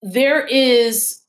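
earnest advice. Real, not acted. Slow inspirational advice.

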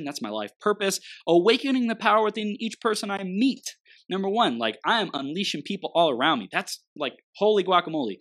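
loud, high rallying cheer; gung ho. Real, not acted. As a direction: fire up the crowd. Rallying cry about his mission.

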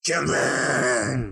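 slow drawn-out Geordie greeting; Geordie accent. Pretend. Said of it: "Use that friendly Geordie voice".

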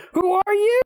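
very high-pitched, baffled squeal; mock incredulous outcry. Viewer challenging a random guy in the film, incredulous squeal. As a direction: squeak the question in exaggerated disbelief.

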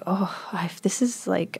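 soft whisper; whispered realisation. Retold or imitated. She realises she might be pregnant, whispered. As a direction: breathe it out, dawning dread.

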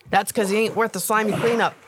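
weary. Acted. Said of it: "in a tone of voice of someone who said it a thousand times".

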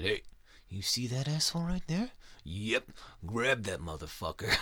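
gleeful boss picking a specimen; cocky alien god. Retold or imitated. God picks out a human.

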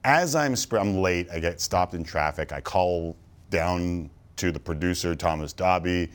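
breathing hard; out of breath from sprinting; audible breathing. Real, not acted. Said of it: "Can you hear me breathing hard right now?".

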